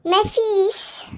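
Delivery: drawn-out, sulky denial; long-drawn huffy brush-off. Acted. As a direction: stretch it out like someone clearly upset. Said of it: "شكلك زعلانه".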